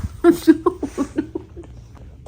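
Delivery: high-pitched burst of laughter; high helpless laugh. Real, not acted. Pet in lap, filming chaos.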